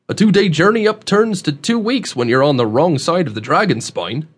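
emphatic folksy country dialect; rustic old man, insistent. Acted. Host warns young man about going upriver, insistent rustic voice. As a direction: set the youngster straight in a backwoods twang.

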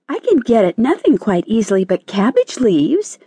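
high, plaintive little caterpillar; mild distress. A narrator's reading. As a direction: fret helplessly in a high voice. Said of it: "murmured the caterpillar in distress".

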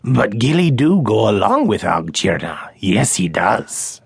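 the small forest creature, eager to please; a hint of a quaint creature; little creature voice. Gilly speaks in creature voice.

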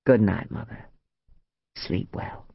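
a hint of the son, low-pitched; lightly voiced son. A narrator's reading.

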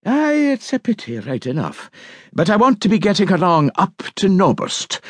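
put-on lilting old islander, unhurried; a hint of an old Scots crofter. Old islander voiced by narrator.

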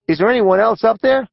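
high scratchy voice. A narrator's reading. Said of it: "in a high-pitched, scratchy voice".

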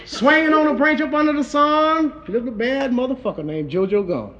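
rhythmic comic storytelling in verse; rhymed toast recitation. A narrator's reading. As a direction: recite it like a bawdy rhyming tale.

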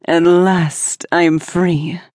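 slow, booming cry of a freed jinn; powerful genie voice. Acted. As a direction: proclaim it to the heavens, slowly. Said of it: "she cried in a powerful voice".

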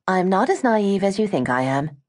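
chiding. Acted. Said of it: "Gwen chided".

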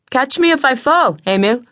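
put-on boy calling down to Emil, light and cheerful; calling back. A narrator's reading. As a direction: call down to the boy below. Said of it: "he called back".

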